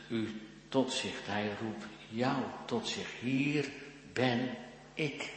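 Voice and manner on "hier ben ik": word by word, with pauses between; well-meant call. Acted. Jesus calls the listener to himself, well-meant measured call. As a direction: set each word apart as an earnest call. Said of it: "Dat is een welgemeend roepen".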